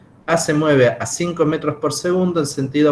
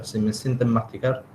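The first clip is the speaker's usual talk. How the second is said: talking around a candy; chewing while talking; 3 semitones lower, 3 dB quieter than usual. Real, not acted. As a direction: speak with candy in mouth. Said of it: "estoy comiendo un caramelo".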